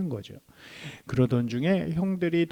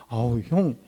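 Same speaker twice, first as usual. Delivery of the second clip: boastful little brother; 5 semitones higher than usual. Retold or imitated. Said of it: "막 이러면서 얘기했을 것 같아요".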